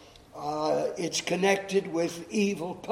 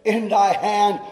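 higher, louder call from the prophet; prophet's raised, pleading request; Elijah calling out; 3 semitones higher, 6 dB louder than usual. Acted. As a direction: call to the widow across the gate. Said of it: "he called her and said".

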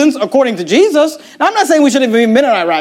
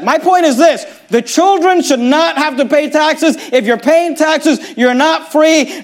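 paraphrasing Jesus; 5 semitones higher, slower than usual. Retold or imitated. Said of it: "here's what Jesus said".

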